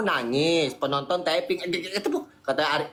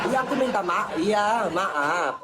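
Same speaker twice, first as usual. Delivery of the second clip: laughing apology; slower than usual. Real, not acted.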